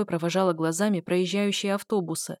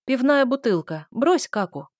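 barked order; 5 semitones higher, 4 dB louder than usual. A narrator's reading. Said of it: "гавкнула я".

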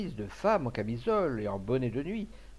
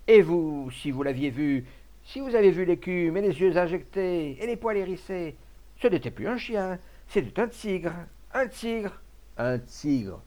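high, loud, mounting outrage; worked-up, emphatic and high-pitched; indignant outcry; 6 semitones higher, 5 dB louder than usual. A narrator's reading. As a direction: exclaim as if nobody believes you. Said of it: "indigné".

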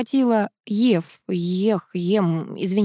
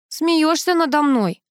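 sobbing; 8 semitones higher, slower than usual. A narrator's reading. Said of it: "всхлипнула Тоня".

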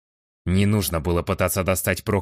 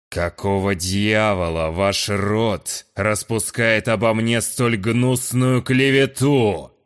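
slow, rising to louder, higher fury; angry; 4 semitones higher, 4 dB louder, slower than usual. Acted. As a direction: press him hard, slow and menacing. Lord presses frightened guest.

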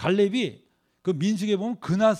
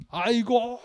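mock wail; 4 semitones higher, much slower than usual. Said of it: "이러면서".

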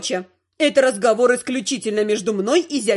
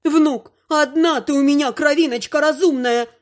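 прослезившись; 7 semitones higher, 3 dB louder than usual. Acted. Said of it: "прослезилась родная бабушка".

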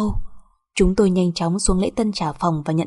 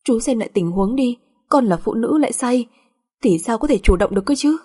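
higher, aggrieved protest; resentful; 4 semitones higher than usual. Acted. Wife defending herself to husband, resentful. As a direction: argue back full of grievance. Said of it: "Tôi ôm một bụng oán thán mà nói".

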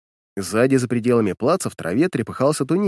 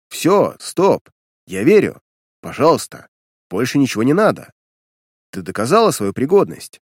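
exasperated shout; 4 dB louder than usual. Acted. Major stops a demonstration, exasperated.

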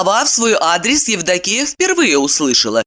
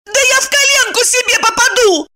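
put-on much higher, tense young woman; voiced heroine, high and curt; Evdokiya's voice; 3 dB louder than usual. A narrator's reading. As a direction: cut him off sharply in a high voice. Evdokiya interrupts.

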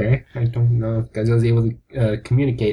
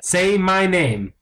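menacing demand; 4 semitones higher, much slower than usual. Acted. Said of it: "I'm Bryan fucking Cranston".

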